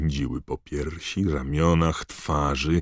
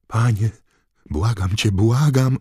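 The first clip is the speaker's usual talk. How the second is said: rising higher, louder terrified plea; desperate begging; 7 semitones higher, 7 dB louder than usual. Acted. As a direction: plead for your life. Wormtail begs in terror.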